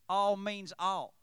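a light mock Texas twang; Southern twang. Shown as a demonstration. Preacher joking to the congregation in a light Texas twang. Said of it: "In Southern twang, Texas twang".

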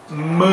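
M as a short nasal syllable. Shown as a demonstration. Teacher illustrating the rule, nasal syllable. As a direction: let M ring in the nose. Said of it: "va a tener sonido nasal".

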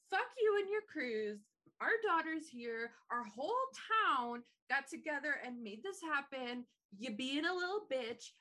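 hammed-up indignant rant; mock telling-off. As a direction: play a fed-up wife laying into her husband. Retold wife telling husband off.

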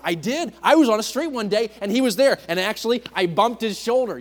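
lightly voiced old man, eager and high; a hint of a grandpa bragging to the kids; old grandpa storyteller. Old man telling his grandchildren he met Jesus, lightly voiced and eager. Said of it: "an old man".

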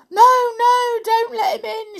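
high, loud panicked pleading; terrified wail. Acted. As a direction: wail it like a frightened doll. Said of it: "she wailed".

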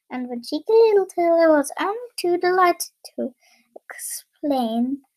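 whispered reading; whispering. Real, not acted. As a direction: read it in a whisper. Reader drops to whisper.

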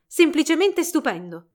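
high, loud delighted praise; smiling declaration. A narrator's reading. Princess praising Giselle's dance, delighted declaration. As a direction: applaud with your voice, smiling. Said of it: "dichiarò sorridendo".

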